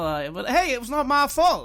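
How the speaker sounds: loud protest. Acted. Buck protests to Annabelle that the spill wasn't his fault, loud. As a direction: insist on your innocence.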